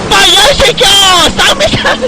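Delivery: gleeful yell. Real, not acted. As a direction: crow at the hit opponent. Hitting opponents in game. (신나서 외치는 소리)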